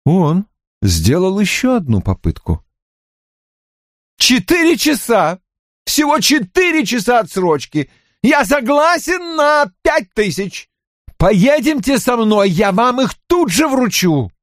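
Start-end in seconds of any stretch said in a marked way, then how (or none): 4.2-14.3 high, urgent bargaining; frantic high-pitched haggling; desperate plea. A narrator's reading. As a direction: beg for time, pitch soaring. O'Neill makes desperate last attempt.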